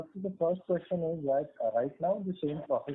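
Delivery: very quiet and faint; faint, far from the mic; barely audible. Real, not acted. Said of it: "Your voice is very low".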